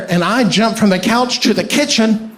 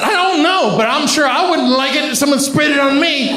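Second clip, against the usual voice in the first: sheepish high reply; 5 semitones higher than usual. Retold or imitated. Justifying the Raid.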